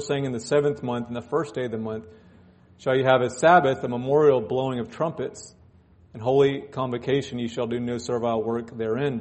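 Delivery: solemn King James reading voice; scripture reading. Acted. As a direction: read the verses with gravity. Reads scripture aloud.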